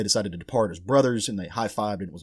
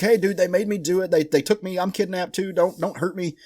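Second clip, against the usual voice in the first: high, panicky pleading, imitating a terrified bartender; freaked-out bartender; 8 semitones higher than usual. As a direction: squeal it out like a scared man begging for his life. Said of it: "the bartender freaks out".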